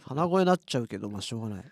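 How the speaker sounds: blocked nose, stuffed-up voice; talking through tissue in the nose; nasal voice. Real, not acted.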